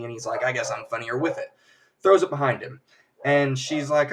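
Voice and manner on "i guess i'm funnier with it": understated, deadpan delivery; dry joke. Retold or imitated. Magician tries a joke after sobering up, dry delivery. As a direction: toss the joke off dryly. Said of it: "lands real dryly".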